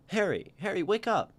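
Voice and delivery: loud, excited wake-up call; calling to wake him. Acted. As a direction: shake an old friend awake. Waking a sleeping friend.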